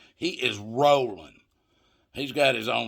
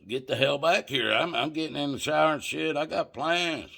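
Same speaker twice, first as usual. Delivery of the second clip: retold stern warning; 5 semitones higher than usual. Warning roommates borrowing his car.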